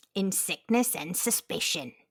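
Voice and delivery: very slow, deliberate, drawn-out delivery. Asked to say the episode title in Cam's voice: Cam's voice. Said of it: "Can you say it in Cam's voice?".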